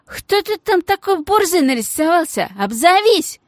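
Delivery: high, loud thug's shout; shouted challenge. Acted. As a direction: yell it into the dark. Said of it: "и крикнул".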